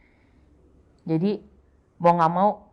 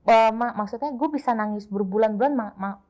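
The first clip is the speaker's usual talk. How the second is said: higher, marvelling voice; imitating amazed friends; 5 semitones higher than usual. Friends marvel at how she stays strong, higher voice. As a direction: mimic friends in awe of her strength. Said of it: "banyak orang bilang".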